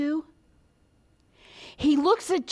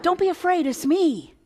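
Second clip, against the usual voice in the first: calling out; 5 semitones higher, 3 dB louder than usual. Acted. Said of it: "Jesus calls out".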